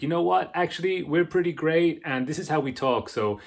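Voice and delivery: mock self-assured retort; imitated proud America. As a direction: play a nation talking back, mildly. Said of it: "and it's like".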